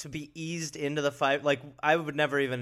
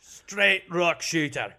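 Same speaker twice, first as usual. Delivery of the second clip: slow put-on voice; 5 semitones higher, 7 dB louder, much slower than usual. Echoing the phrase in put-on voice.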